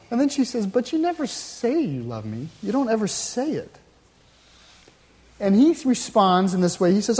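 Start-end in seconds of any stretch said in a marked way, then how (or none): 0.7-3.7 lightly voiced wife, higher and complaining; wife's complaint. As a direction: plead a little, like a wife who feels unloved. Wife complains in sermon story.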